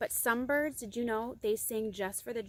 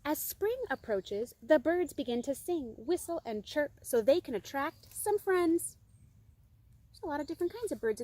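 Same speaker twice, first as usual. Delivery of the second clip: lilting, slightly raised storybook voice; story reading; 4 semitones higher than usual. A narrator's reading. Reader to children about birds in spring, lilting story reading.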